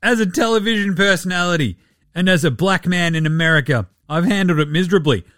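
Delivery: measured, ponderous list of titles; mock a self-important, dreary keynote; solemn speechmaking, lightly imitated; boring TED Talk speaker. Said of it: "giving the world's most boring Ted Talk".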